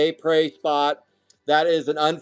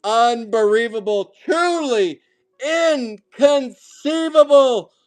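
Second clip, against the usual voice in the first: raised, stretched-out disbelief; excited disbelief; 5 semitones higher, 4 dB louder than usual. Real, not acted. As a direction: marvel out loud, catching your breath. Still hyped over streak.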